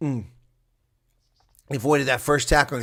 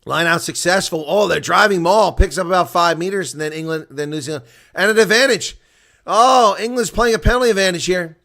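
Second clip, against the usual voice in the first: loud, higher play-by-play as the maul drives; excited commentary; 5 semitones higher, 8 dB louder than usual. Real, not acted. Streamer calling the driving maul, loud and excited. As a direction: build the call as England push.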